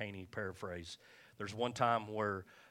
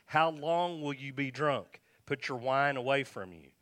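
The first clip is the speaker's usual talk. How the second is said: slow, loud, raised-pitch scolding; stern rebuke; 4 semitones higher, 6 dB louder than usual. Acted. Priest rebukes woman he thinks drunk, slow and stern. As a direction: read out as a drawn-out priestly reprimand.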